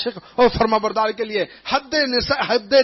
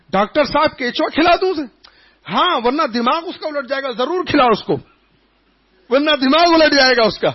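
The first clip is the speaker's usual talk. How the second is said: alarmed father; 5 semitones higher than usual. Retold or imitated. Father and doctor dialogue.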